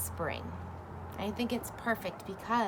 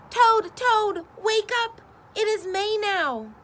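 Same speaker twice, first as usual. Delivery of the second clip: loud, much higher, bursting with news; excited wake-up call; 11 semitones higher, 6 dB louder than usual. Acted. Frog waking Toad with joyful news. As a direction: shout the news right at his bed.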